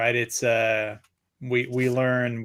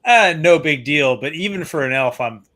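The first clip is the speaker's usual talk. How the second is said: loud cocky boast; 4 dB louder than usual. Retold or imitated. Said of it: "he's basically like".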